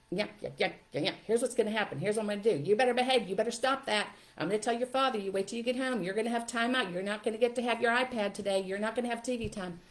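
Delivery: lightly mock a parent lecturing at a child; nagging parent. Parent threatening a misbehaving child, lightly mocked nagging. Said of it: "parents talking at their children".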